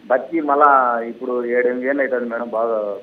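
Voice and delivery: unclear words over a phone line; indistinct speech. Real, not acted. Caller recounts mother's recovery to host, indistinctly. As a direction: mumble through it so words blur. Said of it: "స్పష్టత లేదు మీ మాటల్లో".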